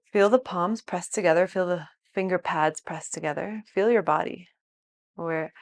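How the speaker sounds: calm body scan with lingering pauses; guided meditation. Real, not acted. Teacher guiding students to feel their whole body, calm meditation. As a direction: lead attention gently through the body.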